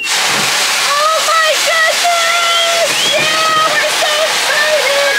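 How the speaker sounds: high, slow, stretched squeal; delighted shriek. Real, not acted. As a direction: burst out as the monkey goes wild. Pool filling, monkey goes wild.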